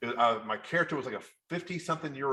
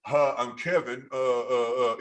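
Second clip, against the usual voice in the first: flat bad read; 5 dB louder, slower than usual. Shown as a demonstration. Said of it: "if I was a Southern guy, I'm going".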